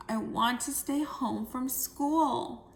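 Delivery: slow, unwilling plea; reluctant. Shown as a demonstration. Jill begs to stay home, reluctant. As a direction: drag it out unwilling. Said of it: "do you think Jill's very excited".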